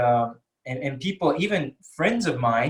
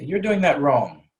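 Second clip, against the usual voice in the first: direct reproach; 4 dB louder, slower than usual. Shown as a demonstration. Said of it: "say it with a question".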